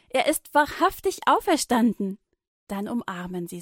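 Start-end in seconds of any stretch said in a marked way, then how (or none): 0.1-2.2 high, loud, wahrhaftig stressed; jubilant. A narrator's reading. Women rejoicing to Petrus, jubilant. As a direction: rejoice as you say it. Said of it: "rufen die Frauen und jubeln".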